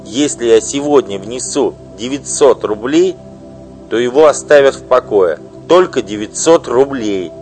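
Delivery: loud, high, bitter tirade; furious wife. Acted. Wife denouncing her husband's mistress, furious loud outburst. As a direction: spit out the insults at her rival.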